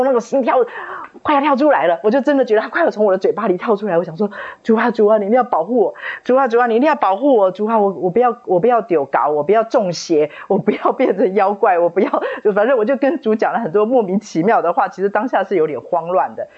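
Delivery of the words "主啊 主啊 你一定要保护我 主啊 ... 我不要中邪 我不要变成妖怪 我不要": 急促又高声地连声祷告; 像吓坏了一样求主保护; 慌张求救. Retold or imitated. 慌乱中向主求救. (慌乱中向主急切祷告)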